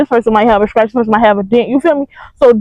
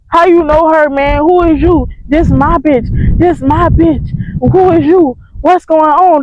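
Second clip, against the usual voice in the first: imitating a jealous challenge, pitched up; higher-pitched mock interrogation; mock confrontation; 3 semitones higher, slower than usual. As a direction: act out the ex demanding answers, higher. Ex confronts Mike, acted quarrel.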